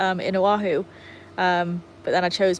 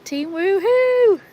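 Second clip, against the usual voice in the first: high, loud, drawn-out whoop; whooping team cheer; excited cheer; 11 semitones higher, 6 dB louder, much slower than usual. Real, not acted.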